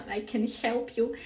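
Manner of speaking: imitating a Greek teacher's accent; lightly amused Greek accent impression; thick Greek accent. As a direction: mimic a heavy Greek accent. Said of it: "very thick accent, like".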